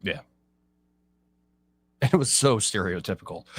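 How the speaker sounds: normal talking voice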